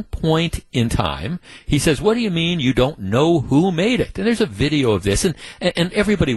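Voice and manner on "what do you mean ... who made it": retold yell. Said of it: "he starts screaming at all of them".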